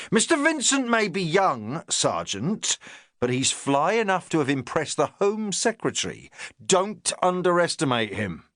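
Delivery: a touch of a self-important inspector; the inspector talking down to his sergeant, lightly pompous. Acted. Narrator voices the inspector.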